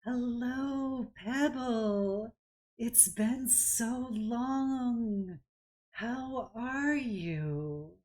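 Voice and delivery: high, slow, soothing voice; calm, soothing. Acted. Druid aunt greets her long-missed niece, calm and soothing. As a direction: greet her gently, drawing out each word. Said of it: "in just this super calm, soothing voice".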